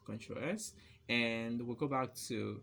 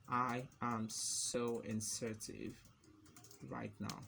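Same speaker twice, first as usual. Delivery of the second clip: slow, with a long pause; typing-pace dictation; slower than usual. Real, not acted. Typing inserted example text, slow dictation. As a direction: draw it out word by word.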